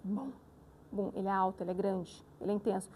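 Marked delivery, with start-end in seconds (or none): 0.0-1.1 low boom of a big drum. Shown as a demonstration. Teacher showing pupils the sound of a big drum, low boom. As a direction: imitate a large drum, low and rounded. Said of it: "um tambor grandão, qual o som que ele faz".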